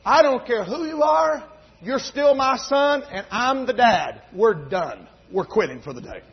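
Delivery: a hint of the hot-tempered father shutting it down; imitating angry dad. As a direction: lay down the law like an irate dad. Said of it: "And boy, he was hot".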